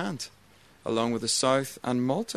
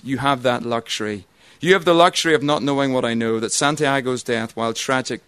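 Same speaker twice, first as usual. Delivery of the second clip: put-on Colonel Jessup, no accent; 3 dB louder than usual. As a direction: declaim the colonel's courtroom rant without an accent. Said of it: "I can't do the accent. I'm not gonna try".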